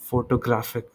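फोटोग्राफिक with weight on GRAF; stress on third syllable. Shown as a demonstration. Teacher contrasting three example words, stress on GRAF. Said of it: "ग्राफिक में हमने ज़्यादा stress दिया".

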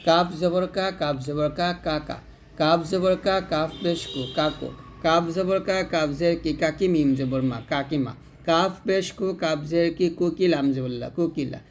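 light K in every কাফ; thin kaf. Shown as a demonstration. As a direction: spell it out with a thin, unweighted কাফ. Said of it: "আর কাফটা পাতলা হবে এরকম". (কাফ পাতলা উচ্চারণে)

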